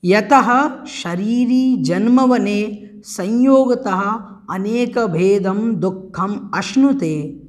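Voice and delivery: slow, deliberate reading of the word order; measured recitation. Shown as a demonstration. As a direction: read the prose order slowly. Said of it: "इसका अन्वय जान लेते हैं". (धीमा, सधा पाठ)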